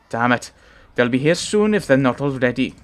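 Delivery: a light Welsh lilt for the giant Varl; Welsh accent. Acted. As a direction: read Ivar's lines in a gentle Welsh accent. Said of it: "he's Welsh".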